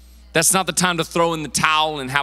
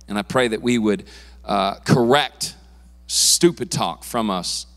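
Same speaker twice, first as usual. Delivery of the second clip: earnest public prayer, strong start then lower; 3 semitones lower than usual. Real, not acted. Pastor praying over his congregation before preaching, earnest prayer. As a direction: pray aloud in measured, deliberate phrases.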